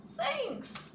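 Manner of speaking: high squeaky thanks; surprised high-pitched thank you. Acted. Bear thanks Mouse for pie.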